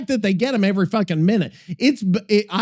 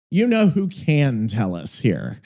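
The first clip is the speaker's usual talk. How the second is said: teasing sing-song; 8 semitones lower than usual. Pretend. Calling up an AI voice.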